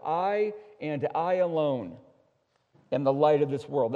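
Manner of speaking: "I and I alone" stretched out, then a pause; emphatic. Retold or imitated. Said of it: "in the emphatic Greek tense".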